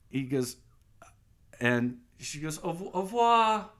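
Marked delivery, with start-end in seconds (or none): 2.6-3.7 mock French farewell.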